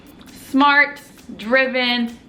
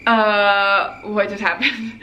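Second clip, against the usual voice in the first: stunned confusion; 2 semitones lower, much slower than usual. Retold or imitated. Retold stunned reaction left alone.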